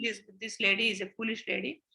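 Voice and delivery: a friend scoffing under her breath; scornful friend. Retold or imitated. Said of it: "my friend ... will think".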